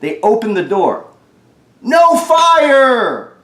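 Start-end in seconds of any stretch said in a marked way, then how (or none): 1.8-3.3 high, loud startled exclamation; surprised cry. Acted. Firemen burst in, loud high surprise. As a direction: sound amazed there's no fire.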